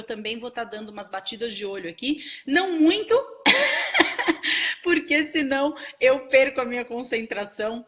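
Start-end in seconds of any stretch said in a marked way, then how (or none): 3.2-4.8 loud, high burst of laughter; real high-pitched giggling burst; hearty laugh. Real, not acted. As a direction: laugh out loud at your own aside. Joking about glancing at chat.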